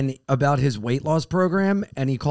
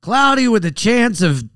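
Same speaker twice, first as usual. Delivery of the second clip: mock weather forecast delivery; weatherman; 4 dB louder than usual. Comedian playing weatherman for the co-host, mock forecast. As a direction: announce it like a TV weatherman. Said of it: "I've always wanted to be a weatherman".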